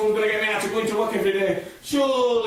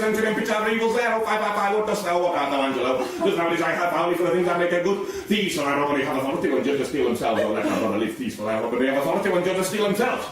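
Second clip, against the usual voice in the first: lower, grand theatrical verse delivery; Shakespeare recital; 5 semitones lower, faster than usual. Acted. Actor reciting Angelo's speech to the audience, hammed-up declamation. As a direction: declaim the lines like a hammy stage actor.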